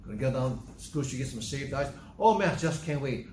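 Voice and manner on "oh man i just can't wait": eager anticipation. Acted.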